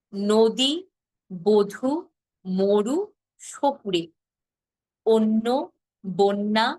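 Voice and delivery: each word said slowly and distinctly; careful pronunciation. Shown as a demonstration. Teacher reads pronunciation words for students. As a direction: model every word cleanly for the class. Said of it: "শব্দের উচ্চারণ আমি আরেকটা বার আপনাদেরকে শুনিয়ে দিচ্ছি".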